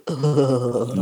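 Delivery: low, drawn-out "ugh"; disgusted groan. Retold or imitated. Recalling a horror from the book, disgusted groan. Imitating own disgusted reaction.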